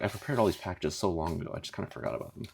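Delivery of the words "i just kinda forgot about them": whispered aside; breathy near-whisper; quiet side. Real, not acted. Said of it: "just gotta keep a little quiet going".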